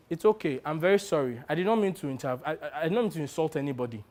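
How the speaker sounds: soft, stumbling apology; subdued, contrite and hesitant; meek apology. Acted. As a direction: back down quietly. Narrator apologises meekly after row.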